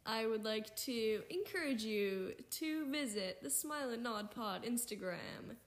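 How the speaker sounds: announcer voice. Pretend. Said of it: "Is this your announcer voice?".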